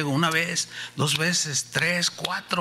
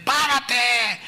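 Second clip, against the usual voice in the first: shouted stop; 7 semitones higher, 3 dB louder than usual. Retold or imitated. Telling chasers to stop.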